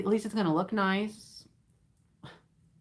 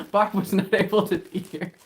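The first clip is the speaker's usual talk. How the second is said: award presenter; 4 dB louder than usual. Pretend. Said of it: "it's like an award ceremony".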